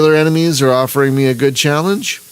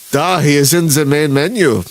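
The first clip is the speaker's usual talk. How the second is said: mock Russian accent. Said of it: "tried to do a Russian accent ... I went German".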